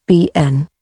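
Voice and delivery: "B N" said short and reduced, like "bin"; weak "been" said like "bin"; weak form. Shown as a demonstration. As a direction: clip "B N" to a quick weak "bin". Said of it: "and weak".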